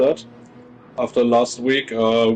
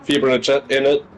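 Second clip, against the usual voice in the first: mock English accent. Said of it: "changing to a English accent".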